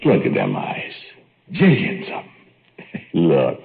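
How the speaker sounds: giddy delight over the pet; swooping up with glee; proud, delighted showing-off; gleeful. Acted. Showing off pet giant fly.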